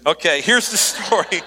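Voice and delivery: giggling as she restarts the line; chuckling restart; laughing restart. Real, not acted. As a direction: laugh through it, then carry on.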